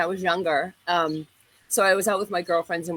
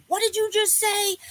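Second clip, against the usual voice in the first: higher, confrontational challenge; confronting the guys; 13 semitones higher than usual. Retold or imitated. Young woman at the guys' car demanding what they said, higher challenge. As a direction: bang on the hood and demand. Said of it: "I said".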